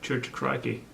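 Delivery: mock Australian accent; a hint of Steve Irwin; Aussie punchline. Husband testing the Steve Irwin joke in an accent. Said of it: "where did Steve Irwin go to church".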